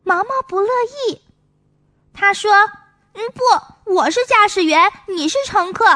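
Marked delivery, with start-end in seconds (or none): 3.1-5.8 put-on small boy claiming the pilot seat; lightly voiced child. Maomao insists to Songsong, lightly voiced child.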